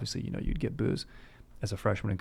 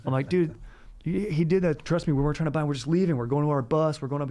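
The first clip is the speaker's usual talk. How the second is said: raised, defensive protest; protesting innocence; 4 semitones higher than usual. Retold or imitated. Tourists pleading with Mexican cops, raised defensive voice. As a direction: insist you did nothing wrong, pitch up. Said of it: "And we're like".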